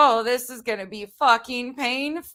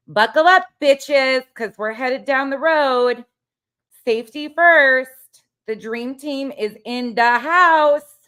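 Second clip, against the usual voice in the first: hyped up; 3 semitones higher, 6 dB louder, slower than usual. Acted. Hypes the team up for the night.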